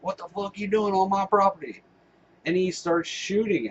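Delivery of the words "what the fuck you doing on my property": higher yelled challenge at trespassers; mock angry farmer. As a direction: bark it like the furious landowner. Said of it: "He's like".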